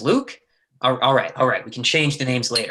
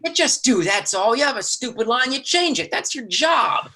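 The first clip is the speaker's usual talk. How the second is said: furious berating; 8 semitones higher than usual. Acted. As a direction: tear into him, pitch climbing. Lee berates his brother.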